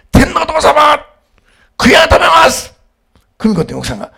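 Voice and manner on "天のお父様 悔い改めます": high, loud cry of repentance; booming prayer shout. Retold or imitated. Father praying aloud in the family seats, booming shout. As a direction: imitate a prayer ringing through the hall. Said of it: "もう会場中に響き渡る声でね".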